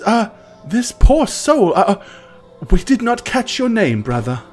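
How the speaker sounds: Reverend Mother voice. Acted. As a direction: address him with grave authority. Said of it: "she says".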